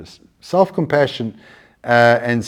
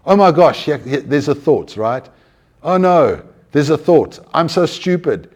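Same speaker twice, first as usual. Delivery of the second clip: mock self-reproach; 3 semitones higher, 4 dB louder than usual. Acted dismay while trying to meditate.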